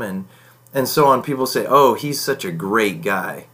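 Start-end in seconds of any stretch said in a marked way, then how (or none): 1.7-3.5 slow, dry sarcasm; mean the opposite of great guy; sarcastic praise. Shown as a demonstration. Mocking a man to listeners, slow sarcastic praise. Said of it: "with the tone of my voice, with my inflection".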